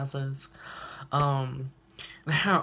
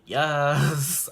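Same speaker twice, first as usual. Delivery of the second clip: louder cheer of yes; 5 dB louder than usual. Real, not acted. Fan cheering her stone block, louder yes. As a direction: punch the air with it. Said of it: "and I'm just like".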